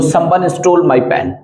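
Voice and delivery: very slow, word by word; slow dictation. Shown as a demonstration. Teacher dictating an example sentence to students, very slow. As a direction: spell the sentence out slowly for the class.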